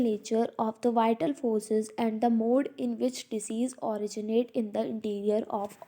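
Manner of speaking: reading the principle out slowly, word by word; slow textbook reading. Acted. Teacher reads the principle aloud to students, slow and deliberate. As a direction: dictate it to the class at a crawl.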